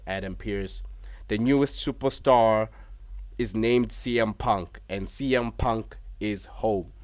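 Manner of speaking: hyped announcer. Acted. Vlogger recapping the show, mock wrestling announcer build-up. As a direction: build it up like a big arena reveal.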